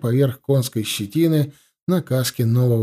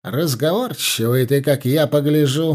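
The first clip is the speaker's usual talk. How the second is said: ordinary delivery, nothing marked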